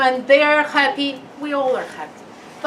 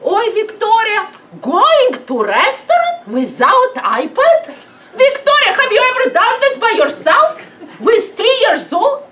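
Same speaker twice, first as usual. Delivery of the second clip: laughing, raised voice, scolding in jest; mock shocked laughing; 6 semitones higher, 4 dB louder than usual. Parent scolds Victoria about dining without iPad, laughing. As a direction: poke fun at the shocked mum.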